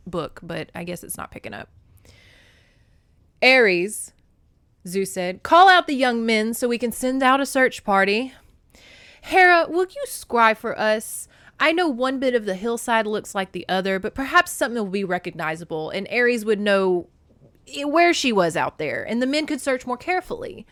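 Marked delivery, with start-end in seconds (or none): 3.4-4.1 loud summons by name; calling out. A narrator's reading. Zeus summons Ares at his table, calling out. 5.4-20.7 loud ruler issuing orders; commanding Zeus. A narrator's reading. Zeus orders the gods to find Kor, commanding.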